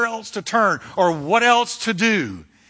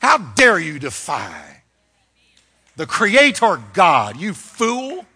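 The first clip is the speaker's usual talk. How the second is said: righteous indignation; 3 dB louder, slower than usual. Retold or imitated. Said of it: "finally want to just stand up and say".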